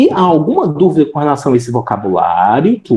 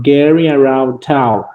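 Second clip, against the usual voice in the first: slightly quicker, falling repeat of the title; repeated model reading. Shown as a demonstration. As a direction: repeat it less drawn out, still measured. Teacher repeats the lesson title.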